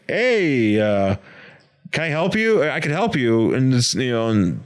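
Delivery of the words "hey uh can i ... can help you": higher, coaxing stranger voice; smooth stranger. Retold or imitated. Stranger in the park offering Donald help, higher coaxing voice. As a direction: sidle up and offer help, pitched up. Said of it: "some dude's like".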